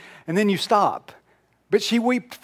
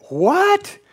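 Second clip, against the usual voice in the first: high, loud "What?" in disbelief; incredulous; 12 semitones higher, 4 dB louder than usual. Retold or imitated. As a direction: sound stunned he hasn't heard. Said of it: "they say".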